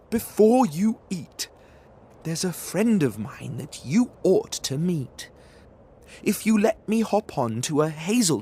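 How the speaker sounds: high, loud squeaky mouse voice; clever mouse. Acted. Mouse bargaining with the Gruffalo's child. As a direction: talk fast to save your skin.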